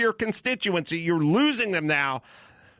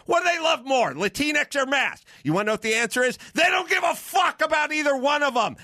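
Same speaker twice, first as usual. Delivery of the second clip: shouting; 5 semitones higher than usual. Real, not acted. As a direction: bark the answer out in full fury. Ranting podcast host shouts at audience.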